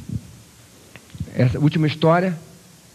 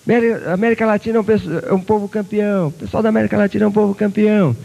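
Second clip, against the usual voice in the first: loud, high ringing calls; echo shouting back; 8 semitones higher, 3 dB louder than usual. Acted. The echo praising the boy and Curitiba, loud ringing call. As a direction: boom it back like a mountain echo. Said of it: "Aí o eco repetiu".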